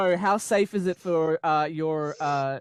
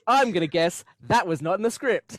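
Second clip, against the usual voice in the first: laughing. Retold or imitated. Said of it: "I was like".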